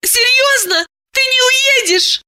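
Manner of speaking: pitched well up, surprised woman; Diana's high voice. A narrator's reading. Narrator gives Diana her high, surprised voice.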